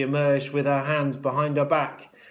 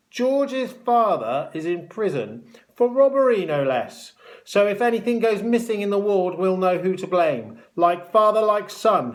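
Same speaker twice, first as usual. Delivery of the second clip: high, loud mocking matron; gloating taunt; 7 semitones higher, 7 dB louder than usual. A narrator's reading. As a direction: shame the boy before the ward. Matron publicly taunts George.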